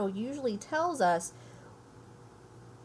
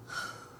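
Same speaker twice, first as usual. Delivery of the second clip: sigh; 10 dB quieter than usual. A narrator's reading. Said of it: "Harry sighed".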